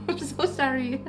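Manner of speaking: giggling through an apology; laughing apology. Real, not acted. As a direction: laugh it off, embarrassed. Laughing at the noise break.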